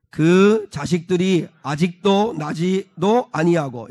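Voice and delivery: slow, measured verse reading; deliberate recitation, phrase by phrase; scripture reading. Real, not acted. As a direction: lead a congregation reading together. Leads congregation in reading verse.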